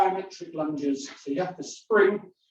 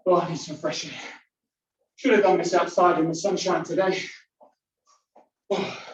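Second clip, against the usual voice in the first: out of breath. Real, not acted. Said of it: "feeling a little bit breathless".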